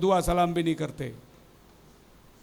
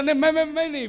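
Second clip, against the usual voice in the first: higher, flustered stammer; stammering denial; 5 semitones higher, faster than usual. Acted. The seller stammering his innocence, pitched higher. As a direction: stumble over मैं repeatedly. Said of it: "दोनों तोतला है".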